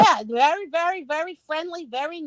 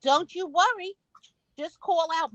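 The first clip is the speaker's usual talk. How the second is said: lightly imitated eager welcome; a hint of high-pitched hospitality; welcoming shop helper; 4 semitones higher than usual. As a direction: lightly play a helpful Southern shop worker. Voices welcoming Southern shop worker.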